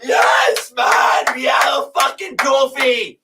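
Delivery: loud breathy victory yell; joyful yell. Real, not acted. Fan yelling to viewers about the trophy, joyful yell. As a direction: roar it out, trophy won.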